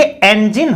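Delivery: "इंजन" opening with an e sound, en-jin; correct pronunciation. Shown as a demonstration. Teacher correcting the first vowel for students, "इंजन" as en-jin. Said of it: "देखिए इंजन होता है".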